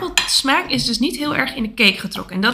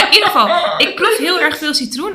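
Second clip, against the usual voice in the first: laughing; 4 semitones higher, 5 dB louder than usual. Real, not acted. Laughing while tasting.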